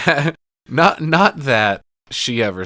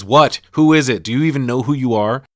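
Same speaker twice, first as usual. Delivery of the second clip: retold irritated answer; 4 semitones higher, 8 dB louder than usual. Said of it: "and he says".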